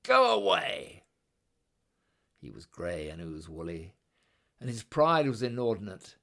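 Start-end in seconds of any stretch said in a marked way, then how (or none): 0.0-1.0 high, loud brush-off shout. Acted. Little god shouting at Kangaroo to go away. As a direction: bark it out like a cross little god. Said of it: "and shouted".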